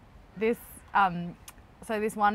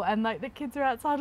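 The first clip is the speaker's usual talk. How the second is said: hysterical crying; 3 semitones higher than usual. Retold or imitated.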